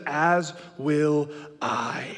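drawn-out, half sung and giggling; pledge melting into laughter. Retold or imitated. Dad joining the fake pledge, laughing through it. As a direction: try to stay solemn but crack up.

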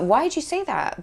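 high-pitched retold question; mock-puzzled reply to a daughter; puzzled mum.

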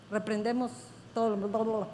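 low, soft skimming over words; quiet, throwaway blah blah; dismissive blah-blah. Acted. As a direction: trail through a rote formula. Skims over a stock rebuke formula.

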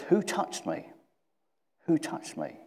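high, hushed voice for the quote; soft questioning. Acted. Preacher as Jesus asking the crowd, soft high question.

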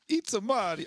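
playful Vin Diesel as Mario. Retold or imitated. Friend teasing about the movie, mock Vin Diesel voice. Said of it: "I could just see Vin Diesel go".

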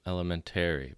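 "elementary" with the weight on TARY; stress on -TARY. Retold or imitated. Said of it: "Emphasis on the wrong syllable".

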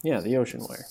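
muffled, distorted line sound; fuzzy voice. Real, not acted. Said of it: "is why I sound like this".

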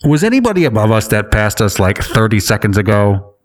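a hint of a radio pilot. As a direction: read it like a pilot calling the tower. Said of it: "should I do the pilot voice?".

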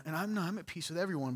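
lightly voiced smug woman, a bit quick; feminine voice. Preacher mocking a passive aggressive churchgoer, lightly feminine voice. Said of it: "I did a feminine voice".

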